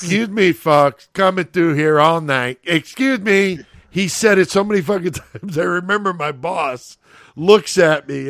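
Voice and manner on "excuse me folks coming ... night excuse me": Freddie's call. Retold or imitated. Retelling the busboy's call again, lightly raised. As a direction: sing it out to the crowd. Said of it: "you could hear his voice".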